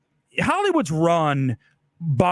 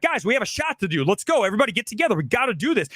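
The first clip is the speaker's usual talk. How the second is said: demanding; 4 semitones higher, faster than usual. Shown as a demonstration. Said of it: "You can be demanding".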